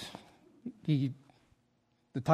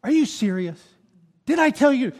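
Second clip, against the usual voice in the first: exasperated outburst, building louder and higher; frustrated; 7 semitones higher, 6 dB louder than usual. Retold or imitated. Homeowner confronting movers over a scratched floor, frustration boiling up. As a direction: let the exasperation burst out in retelling. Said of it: "My frustration came out".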